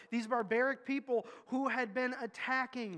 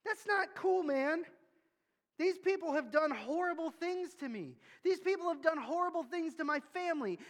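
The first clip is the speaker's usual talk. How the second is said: higher-pitched, aggrieved protest to God; Jonah's angry complaint; 5 semitones higher than usual. Retold or imitated. Jonah complains to God about saving Nineveh, aggrieved and higher. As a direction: vent the grievance like a wronged man. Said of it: "gets mad, says".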